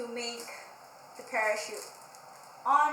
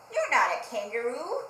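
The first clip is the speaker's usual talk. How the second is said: Parrot scoffing; 6 dB louder than usual. Acted. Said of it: "said Parrot".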